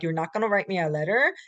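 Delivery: pointed, demanding question; confrontational. Shown as a demonstration. Teacher to students, a confrontational demand. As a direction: press them for an answer, a bit fast. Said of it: "Sounds very confrontational".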